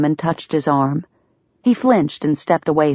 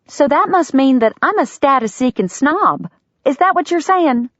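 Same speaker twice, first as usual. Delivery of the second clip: higher, biting sarcastic question; sarcastic challenge; 10 semitones higher than usual. A narrator's reading. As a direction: throw his words back.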